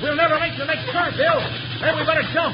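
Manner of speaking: high-pitched, panicky shout; frantic warning. Acted. Timber boss to Bill before the turn, frantic. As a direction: warn him as time runs out. Train nearing a dangerous turn.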